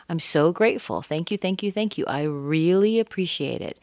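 grateful emotion. Shown as a demonstration. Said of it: "I want to show my emotion".

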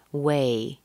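"Way" with a drawn-out A gliding to E; long vowel. Shown as a demonstration. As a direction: stretch "Way" through to an E ending. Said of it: "that's a long sound".

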